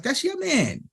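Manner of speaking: very high-pitched mock retort; dismissive retort. Rapper throwing the friendship back at producer, dismissive.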